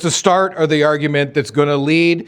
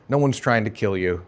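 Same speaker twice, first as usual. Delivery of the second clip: lower, softer, flat-out denial closing the quote; quieter dismissive denial; 3 semitones lower, 4 dB quieter than usual. Acted. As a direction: settle it, quieter, as if final. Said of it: "they all denied it together, emphatically".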